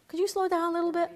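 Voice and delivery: lightly high, fast nervous plea; nervous passenger. Retold or imitated. Vata fretting at the speeding Pitta, mock nervous plea. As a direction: fret at the driver a bit. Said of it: "Who's gonna be like".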